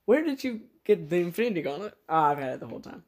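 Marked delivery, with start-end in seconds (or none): 0.1-1.9 high incredulous hero voice. Pretend. Hero questioning genie.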